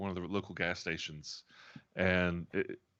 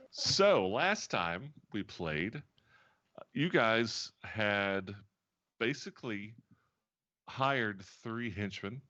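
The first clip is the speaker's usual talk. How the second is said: slow, deliberate scene-setting; measured tabletop narrator; game master recap; slower than usual. Real, not acted. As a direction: recap the adventure in measured phrases with long pauses. Game master recaps last session.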